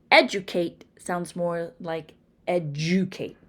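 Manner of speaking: Train, Trick, Drive, Dress said slowly, second take as chrain, jrive; slow contrast, ch and j on the second word; affricated tr dr. Shown as a demonstration. Teacher models affricated blends, slow. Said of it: "they sound more like the two affricates".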